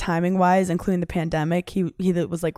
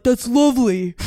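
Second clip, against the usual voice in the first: light Irish lilt, a bit higher and louder; a playful hint of Irish accent imitating him; lightly imitating partner's Irish accent; mock Irish accent; 4 semitones higher, 4 dB louder than usual. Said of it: "he talks like this, but he'll say".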